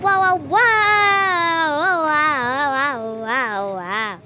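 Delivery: awed wows that fade out; excited. Real, not acted. Thrilled reaching the end.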